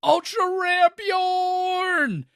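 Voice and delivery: high, excited shout of delight. Real, not acted. Fan shouting about the reunion, excited. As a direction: burst out with joy.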